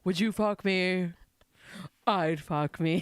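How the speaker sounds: low, slow sassy drag queen. Retold or imitated. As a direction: purr it out like a drag diva. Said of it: "Your drag voice is so good".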